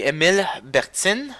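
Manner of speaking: Émile Bertin with a French R and French vowels; French pronunciation. Shown as a demonstration. Reviewer showing how you say Émile Bertin in French, French pronunciation. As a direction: say Émile Bertin as a French name, "ay-meel bair-tan". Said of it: "how you say it in French".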